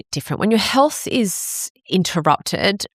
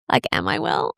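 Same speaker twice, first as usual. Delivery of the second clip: hushed whisper; 10 semitones lower than usual. Retold or imitated. Questioning herself in a hush.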